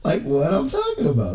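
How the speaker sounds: real laughter breaking into the words; apologetic, can't help laughing; laughing while talking. Real, not acted. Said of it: "Excuse me, laughing".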